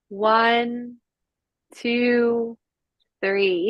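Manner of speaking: slow, calm counting through each breath; guided breathing count. Acted. Coach counting breaths for the class, calm and unhurried. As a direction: ease the class through inhale and exhale.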